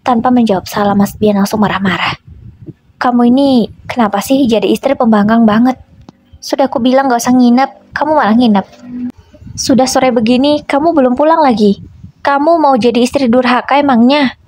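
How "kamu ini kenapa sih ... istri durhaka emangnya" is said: scolding, pitched up, mildly acted anger; raised voice. Husband scolding wife over the phone, mildly raised angry voice. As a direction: scold her like an irritated husband. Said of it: "ucap Mas Bian dengan nada tinggi".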